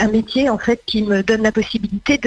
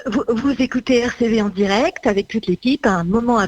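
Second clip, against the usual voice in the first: voix de jingle rapide et enjouée, qui accélère; jingle radio. Shown as a demonstration. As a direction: lancer l'antenne comme un jingle. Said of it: "Je vais vous faire un petit". (voix off de jingle radio)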